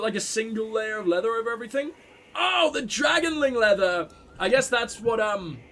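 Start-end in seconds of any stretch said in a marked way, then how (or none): 2.3-4.1 excited. Real, not acted. Spots favourite armour.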